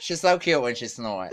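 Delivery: chuckling through the words; laughing. Real, not acted. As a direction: still laughing, calmer now. Repeats it while still laughing.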